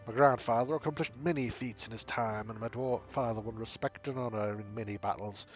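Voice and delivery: gruff-proud dwarf craftsman, lightly voiced; dwarf bragging about his people's armor. Dwarf speaks of his family.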